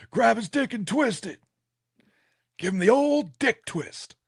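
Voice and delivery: giggling high through the words; laughing. Acted. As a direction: squeal it out while laughing. Laughing friends joke crudely.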